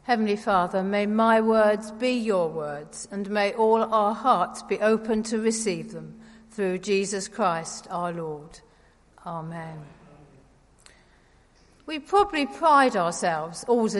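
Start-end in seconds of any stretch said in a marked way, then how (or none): 0.0-9.8 prayer. Acted. Leads a prayer.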